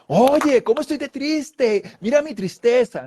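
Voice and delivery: high, ironic mock lament; mock showing off sadness. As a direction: parade your sadness absurdly. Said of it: "nadie dice". (tristeza exhibida en burla)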